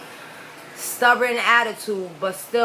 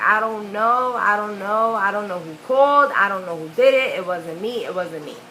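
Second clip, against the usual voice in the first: repetitive mock-innocent denial; imitated kid's stubborn denial; acting dusty. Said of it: "acting dusted as I can act".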